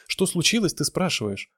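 high, loud, incredulous; outraged cry. A narrator's reading. Irina throws Ivan's question back, high indignant outcry. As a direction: echo it back in a high outburst. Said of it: "выкрикнула она".

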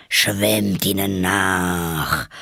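long, drawn-out creature cry; mild screech. Acted. Griffin carried away by the dance, mild drawn-out screech. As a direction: stretch the words out like a far-carrying call. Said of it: "kreischte der Greif".

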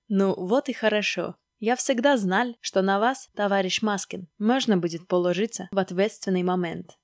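put-on Stalin figure, Georgian-accented. Stalin praises Maskin's obedience, Georgian accent. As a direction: approve of him in a Georgian accent. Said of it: "с грузинским акцентом засмеялась трубка".

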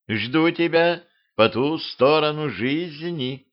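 slow, drifting away echo; fading echo. Acted. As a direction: let it fade like an echo. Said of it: "затыхающим эхом пронеслось". (затихающее эхо)

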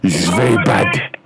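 clipped broken English, hammed-up Chinese accent; mock Chinese accent. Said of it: "It sounds like a French person".

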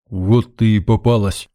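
a gruff disguised bark to scare her; spring out with a mock-menacing bark; barked in a changed voice. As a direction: prankster barking in a put-on voice. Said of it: "рявкнул, чуть изменив голос".

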